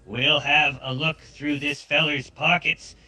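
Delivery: a relaxed Southern outlaw, laid back; southern accent. Acted. Southern accent as the outlaw agrees to loot the body. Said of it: "it captured the southern accent".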